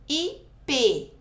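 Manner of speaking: "E P" in two separate beats, the P strong; syllable demo of "E P", weight on the last; stress on P. Shown as a demonstration. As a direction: hold back, then hit the final P of "E P". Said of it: "é o P, a sílaba tônica".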